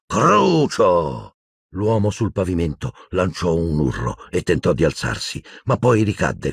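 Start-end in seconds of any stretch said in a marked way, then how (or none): 0.1-1.3 a high, icy cast of the curse; cold high curse. A narrator's reading. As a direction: spit the curse out coldly. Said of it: "Sentì la fredda voce acuta dire". (maledizione gelida e acuta)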